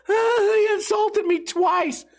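high, drawn-out whiny wail; mock crying. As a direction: imitate a crybaby wailing in complaint. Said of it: "you fucking cried about it".

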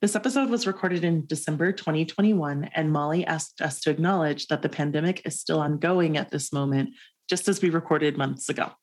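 even, measured read-aloud; scripted podcast notice. Acted. Host notes for listeners when this was recorded, scripted read. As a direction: read the preface evenly from a script.

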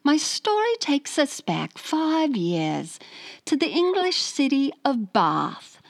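put-on English accent; Kate Beckinsale. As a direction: read the letter in a careful English accent. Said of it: "Do Kate Beckinsale".

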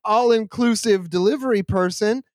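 lightly voiced over-eager clerk; fake friendly courier. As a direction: sell it like a cheesy helper. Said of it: "but they're like".

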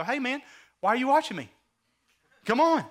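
high, quick, put-upon protest; exasperated complaint. Acted. Acts out complaint to idle brother.

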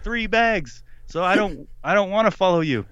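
high-pitched, whining mock refusal; pleading protest. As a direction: retell it as a desperate objection. Retold pleading protest to Ranger.

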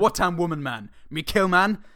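confused primitive grunting; caveman voice. Acted. Caveman speech, rising.

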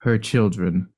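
halting translation. Acted.

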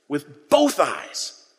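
very slow, weighted with both eyes; slow emphasis. Real, not acted. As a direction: stretch out both eyes deliberately. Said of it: "slowed for emphasis".

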